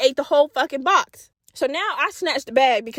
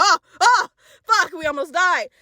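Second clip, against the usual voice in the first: startled; 4 semitones higher than usual. Retold or imitated. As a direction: jolt of fright as the car swerves. Car swerves after punch.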